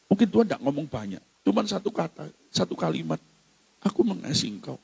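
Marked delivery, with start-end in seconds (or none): 3.8-4.8 soft, hushed declaration of love; tender. Acted. God's single sentence to a believer, tenderly. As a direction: say it gently and quietly.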